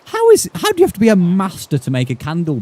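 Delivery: high-pitched baffled protest; exasperated disbelief. Real, not acted. Player ranting at a master villager's candle trade, exasperated. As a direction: pitch shoots up in real exasperation.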